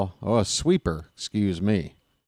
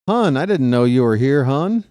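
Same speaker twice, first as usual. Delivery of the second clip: excited greeting; 4 semitones higher, 6 dB louder than usual. Real, not acted. Greeting a friend in the booth.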